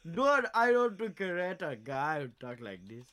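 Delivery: a light, slowed mock Russian accent. Teasing a friend in a mock Russian accent. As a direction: lean into a Russian accent, half joking. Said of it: "he can't do the accent".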